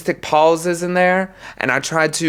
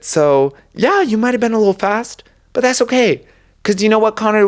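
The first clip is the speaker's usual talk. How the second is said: mock reassuring coach; 5 semitones higher than usual. Role-playing a reassuring coach.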